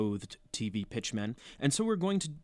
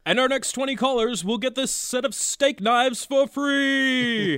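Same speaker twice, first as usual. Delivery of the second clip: home shopping host; 10 semitones higher, 6 dB louder than usual. Acted. Co-host joins the mock infomercial.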